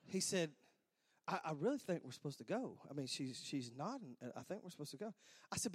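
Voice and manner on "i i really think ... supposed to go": very soft, low urging; hushed insistence. Retold or imitated. Dad urging his son to walk out, hushed and low. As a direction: press the point under your breath. Dad's hushed reply before ceremony.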